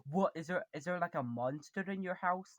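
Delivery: imitating a puzzled, alarmed viewer. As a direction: act out a viewer's startled question. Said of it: "you'd probably be like".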